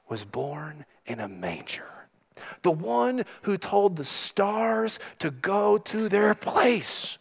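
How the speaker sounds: hushed, reverent storytelling voice; hushed awe. Real, not acted. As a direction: drop to a near whisper, marvelling at the manger. Awed hush on the nativity.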